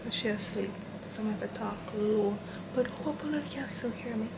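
hushed so the roommate sleeps; talking low. Real, not acted. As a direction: keep it down, someone's sleeping. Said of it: "I'm talking low because my roommate is sleeping".

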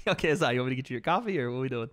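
fast, chirpy intern voice; eager intern. Retold or imitated. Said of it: "That does sound like some intern shit".

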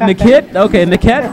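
Nikit said as "nuh-KIT", stress on KIT; "Nikit" read out wrongly, rising; mispronouncing Nikit. Retold or imitated. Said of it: "that's how you said it".

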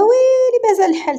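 high, loud exclamation of dismay; shocked exclamation; surprised protest. Acted. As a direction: cry out in surprise that she's leaving. Friend protests she leaves early.

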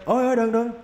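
high, startled pleas; sudden high alarm; panicked. Real, not acted. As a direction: yelp it out as you get hit. Panics when attacked in game.

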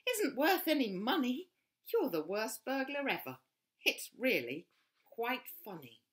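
high, loud bird squawk; squawking flamingo. A narrator's reading. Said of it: "squawked Flamingo".

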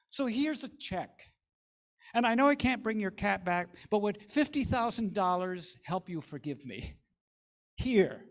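high, loud, coaxing offer; eager pleading. Acted. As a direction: win her over with the check. Wayne eagerly offering money.

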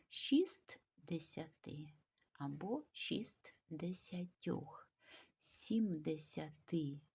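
slow, careful dictation, each form ending on a stressed last syllable. Shown as a demonstration. Teacher dictating numeral forms to pupils, slow with final-syllable stress. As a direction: spell out п'ятдесятьох, шістдесятьох, шестисот slowly, leaning on the final syllable. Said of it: "наголос падає на останній склад".

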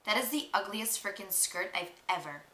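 mean and spiteful. Acted. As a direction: drop the act and sneer. Drops fake act, insults.

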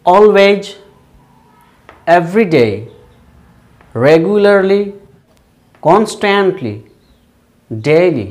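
"always", "every day", "regularly", "constantly", "daily" as separate, carefully spoken items; pronunciation model. Shown as a demonstration. Teacher runs through the adverbs once again, careful pronunciation model. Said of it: "Once again".

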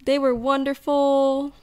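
slow, sing-song gushing parody; mocking gush. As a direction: mimic smug happy couples. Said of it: "most of the other podcasts".

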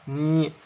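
"ني" as one drawn-out ny; ny sound demo. Shown as a demonstration. Teacher repeating the new sound for students, drawn out. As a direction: stretch "ني" on its own. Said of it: "ممكن نجيبها زي هيك".

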